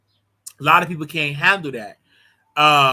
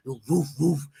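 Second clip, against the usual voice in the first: mock dog bark. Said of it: "for a dog".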